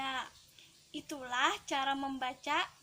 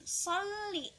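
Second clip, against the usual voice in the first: "Sholli" higher, with a long pressed l; ditekan dan ditahan; 4 semitones higher, 3 dB quieter than usual. Shown as a demonstration. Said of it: "Harus ditekan dan ditahan". ("Sholli" dengan lam ditahan lama)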